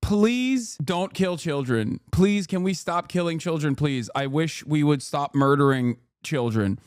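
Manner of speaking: Miss Rachel. Retold or imitated. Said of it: "things that Miss Rachel is saying".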